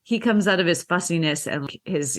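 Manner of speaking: normal talking voice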